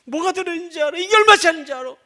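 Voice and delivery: high-pitched furious scolding; angry yell. Retold or imitated. Father scolding his baby over the ruined laptop, shouting. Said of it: "막 소리를 질렀어요".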